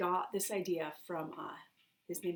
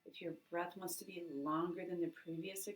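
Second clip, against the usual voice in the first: hushed breathing coach; guided breathing; 4 dB quieter than usual. Acted. Leads a breathing exercise.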